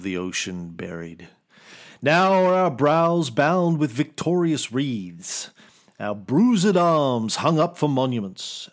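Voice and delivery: scheming stage villain monologue; Richard the Third. Acted. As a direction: relish every line like a theatrical villain. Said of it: "oh, Richard the Third".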